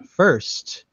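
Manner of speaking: slow, measured statue pronouncement; humble statue. Acted. Humble male statue giving adventurers their first task, slow and solemn. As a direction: set out the task slowly and deliberately. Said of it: "more humble male statue".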